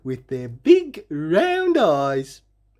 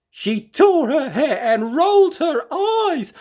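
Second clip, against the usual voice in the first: higher, louder frantic telling; frantic narration; 12 semitones higher, 4 dB louder than usual. A narrator's reading. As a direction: tell it in a frenzy. Narrating Hilda's frenzy.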